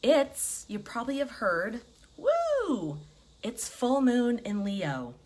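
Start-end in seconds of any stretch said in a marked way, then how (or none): 2.2-3.0 high, drawn-out woo. Real, not acted. Host about to announce the full moon, high whoop. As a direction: let out a high, sustained woo.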